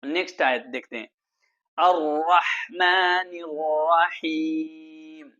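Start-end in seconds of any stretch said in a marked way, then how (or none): 1.8-5.3 slow, measured tajweed recitation; slow melodic Quran chant. Shown as a demonstration. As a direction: recite it slowly like a qari. Recites verse.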